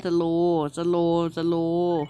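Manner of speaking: drawn-out slow สโลว์ สโลว์ สโลว์; slowly spoken slow slow slow. Shown as a demonstration. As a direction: stretch each สโลว์ as you say it. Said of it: "นี่ให้มันสโลว์".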